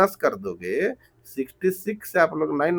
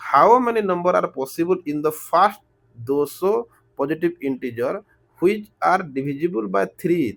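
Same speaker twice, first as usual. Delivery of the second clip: very slow, word by word reading of the question; much slower than usual. Real, not acted. Teacher reading the word problem aloud to students, very slowly. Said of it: "इतना धीरे-धीरे बोल रहा हूँ".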